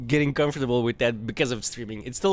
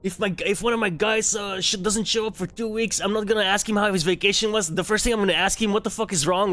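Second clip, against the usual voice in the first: higher, mock-furious father scolding; angry dad rant; 8 semitones higher than usual. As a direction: retell dad losing it at the principal, hammed-up. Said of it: "my dad, like, lost it".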